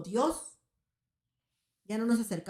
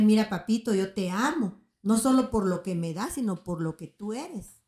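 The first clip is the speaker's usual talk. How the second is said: fervent prayer to God; 7 dB louder than usual. Pretend. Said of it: "a decirle".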